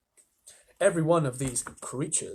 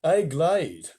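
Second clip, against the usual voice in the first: prim; 2 semitones higher, 5 dB louder than usual. Acted. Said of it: "said the earthworm primly".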